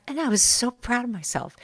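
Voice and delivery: a lightly imitated sweet, soft pride; sweet proud voice. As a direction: say it softly, pleased with herself. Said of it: "she was like".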